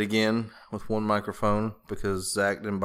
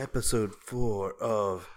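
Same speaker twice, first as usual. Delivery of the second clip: radio announcer voice; slower than usual. Shown as a demonstration. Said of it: "Just use your radio announcer voice".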